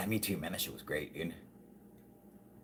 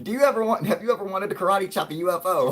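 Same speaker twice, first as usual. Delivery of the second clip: trailer pitch; 12 semitones higher, 8 dB louder, faster than usual. Retold or imitated. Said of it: "I'm like".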